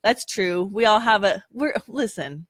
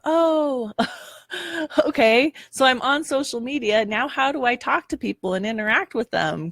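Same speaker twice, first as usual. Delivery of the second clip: flustered newbie; 6 semitones higher than usual. Retold or imitated. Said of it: "So it's like".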